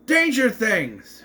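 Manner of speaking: slow, loud, drawn-out title call; title announcement. Acted. Host announcing the episode title, slow and loud. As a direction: boom it out like a show host.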